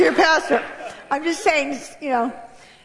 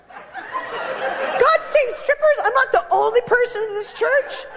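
amazed; 9 semitones higher, slower than usual. Retold or imitated. Amazed reaction, laughing.

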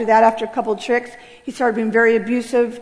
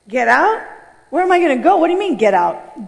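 retold shocked protest; 3 semitones higher, 3 dB louder than usual. Daughter answering her father's order, stunned and rising.

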